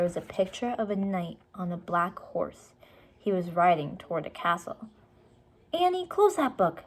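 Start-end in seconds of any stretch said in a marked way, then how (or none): 5.7-6.8 put-on higher pleading boy voice; boy warning his sister; Jack voiced. A narrator's reading. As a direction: warn her off the book. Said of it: "said Jack".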